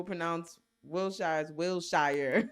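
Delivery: second "Wilshire" ends in a full "shire"; out-of-towners' Wilshire. Shown as a demonstration. Reading out a joke on out-of-towners, "Wilshire" ending in "shire". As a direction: contrast "Wilshire" as sher, then as shire. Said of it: "when out-of-towners people pronounce".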